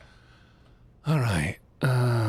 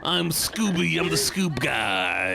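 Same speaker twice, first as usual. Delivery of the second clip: lightly voiced high cartoon dog, some lines slow; a playful stab at Scooby-Doo; 3 semitones higher, slower than usual. Streamer shows friend a Scooby impression, lightly high cartoon voice. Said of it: "a really good Scooby impression".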